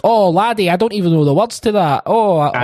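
hammed-up denial from an old-timer; mock old Scottish manager. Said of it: "He's like".

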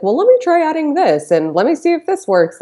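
musing hopefully over a trial batch; curious experimenting. Retold or imitated. Recalling baking by accident, voicing her hopeful inner thought. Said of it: "Like, it was like".

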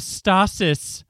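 "stasis" said as STAH-sis; mispronounced stasis. Retold or imitated. Podcaster quoting a character's odd pronunciation, "stasis" as STAH-sis. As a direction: say "stasis" with an AH in the first syllable. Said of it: "their pronunciation of frickin' words here".

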